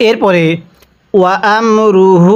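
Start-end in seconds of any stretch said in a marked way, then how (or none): 1.1-2.4 আমরুহু with hু stretched; three-count madd. Shown as a demonstration. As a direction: draw out the হু. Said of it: "তিন আলিফ টান দিব".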